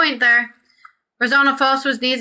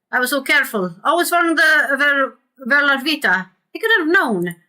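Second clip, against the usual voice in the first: lightly voiced panicky merchant, higher; higher, lightly acted pleading; 5 semitones higher than usual. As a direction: read it as a hard-done-by character, pitched up. Player reads Verzano's pleading lines.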